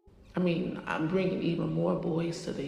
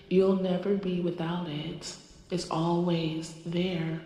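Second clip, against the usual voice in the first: channeled goddess voice. Acted. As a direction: speak as a spirit passing through you. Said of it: "She wants to come through".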